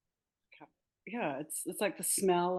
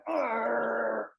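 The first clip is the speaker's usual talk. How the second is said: loud, drawn-out mock growl of annoyance; imitated frustrated groan; 5 semitones higher, 4 dB louder than usual. Author mimicking plane passengers hearing a crying baby, mock exasperated groan. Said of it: "instead of sitting there going".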